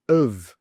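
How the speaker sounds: "of" as an unstressed uhv; weak of. Shown as a demonstration. Teacher models the next weak word, weak of. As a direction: reduce "of" to schwa plus v. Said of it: "when do we use weak forms".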